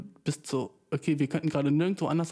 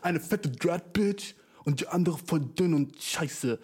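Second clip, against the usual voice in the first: mocking; 3 semitones higher, slower than usual. Repeats insult slowly, different voice.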